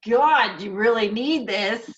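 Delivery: mock fed-up guardian spirit; exasperated spirit. Fed-up spirit urging a stubborn human, playfully exasperated. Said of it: "they're tired of your bullshit".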